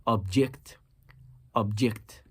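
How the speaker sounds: "object" with JECT stressed, as the verb; stress on second syllable. Shown as a demonstration. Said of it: "placed my nabr on the second syllable".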